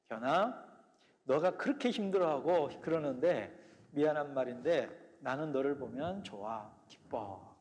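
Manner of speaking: gentle voice of God. Retold or imitated. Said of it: "하나님이 내 마음속에 들려준 세 마디".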